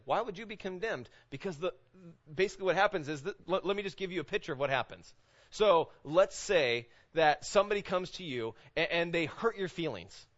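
ordinary talk

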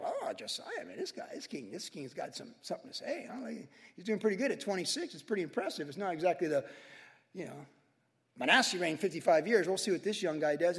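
put-on half-laughing aside about the young king; mock impressed onlooker. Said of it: "people going like".

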